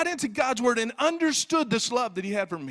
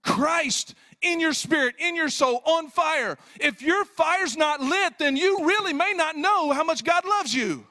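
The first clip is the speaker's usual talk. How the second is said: high, insistent pulpit delivery; emphatic, sustained proclamation; impassioned preaching; 6 semitones higher, 4 dB louder than usual. Acted. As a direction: press each point urgently on the congregation. Preaches at full force.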